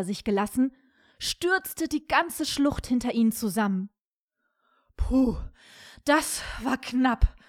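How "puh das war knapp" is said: slow, drawn-out sigh of relief; lightly acted, slow storybook groan; relieved groan. A narrator's reading. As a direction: groan it after a narrow escape. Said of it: "stöhnte Siegfried".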